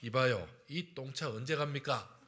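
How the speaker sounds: mildly irritated passenger, lightly acted; retold grumpy call, understated; mock angry call. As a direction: play a touch of impatience at the driver. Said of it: "운전자에게 이렇게 외칩니다".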